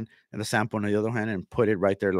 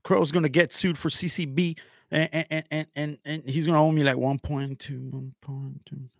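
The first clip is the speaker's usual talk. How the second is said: high, stammering mock boast; mocking imitation; 5 semitones higher than usual. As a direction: mimic him stuttering in a raised voice, then fade. Mimicking rival's boast about suing.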